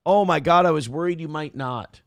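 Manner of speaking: sarcastic relief. Pretend. Sarcastic relief at platform promise.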